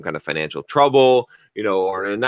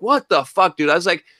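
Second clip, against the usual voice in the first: pissed off. Retold or imitated. Telling off the customer who wasted time, angry. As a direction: vent the anger hard. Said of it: "I was pissed".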